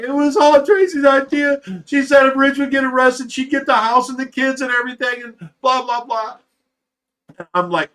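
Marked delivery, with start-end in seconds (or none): 0.0-6.4 high-pitched mock outburst, fading in volume; mimicked confession in a raised voice; retold tearful confession. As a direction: blurt it high, imitating a witness cracking. Witness breaking down, confessing, retold.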